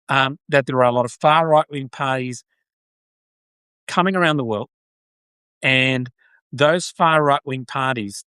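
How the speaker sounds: Aussie trying an American Southern accent. Shown as a demonstration. Aussie streamer trying a Southern accent for chat. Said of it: "That was Southern".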